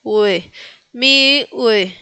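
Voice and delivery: "Miłe" with a clear w glide; Polish ł as "ue". Shown as a demonstration. Teacher showing how ł sounds, w-like glide. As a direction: isolate ue, then Miłe as mi-ue. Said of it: "se pronuncia ue".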